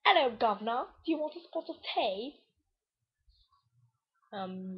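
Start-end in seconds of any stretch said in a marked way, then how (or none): 0.0-2.4 fail British accent. Shown as a demonstration. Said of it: "those are my fail accents".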